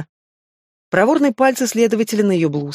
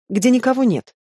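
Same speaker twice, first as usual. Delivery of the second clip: ordinary delivery, nothing marked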